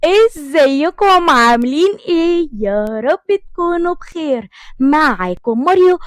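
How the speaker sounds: drawn-out bubbly welcome; cheerful greeting. Real, not acted. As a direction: greet the viewers brightly. Cheerful channel intro greeting.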